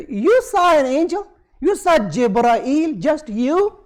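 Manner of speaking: mock disbelief. Quraysh doubting the Prophet saw an angel, mock-incredulous. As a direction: question it in mock disbelief, pitch jumping up. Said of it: "This is how they used to say".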